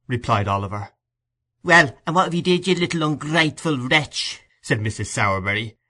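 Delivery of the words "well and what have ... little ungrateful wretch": much higher, louder scolding; scolding woman. A narrator's reading. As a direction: berate the ungrateful boy. Mrs Sowerberry scolding boy.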